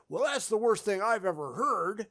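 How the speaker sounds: held-back quote, set apart from your own point; quoted verdict. Acted. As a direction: say it as an imagined remark, stress on "that's". Hypothetical quote, then contrasted with all.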